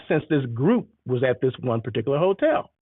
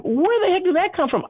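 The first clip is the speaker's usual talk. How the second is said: retold disbelief. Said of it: "I'm like".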